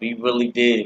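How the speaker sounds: normal talking voice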